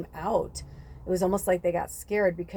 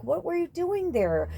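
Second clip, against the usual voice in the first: much higher, indignant mock yell at the snakes; retold angry outburst; 11 semitones higher than usual. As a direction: replay the angry snap at the snakes. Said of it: "I was angry at the snake".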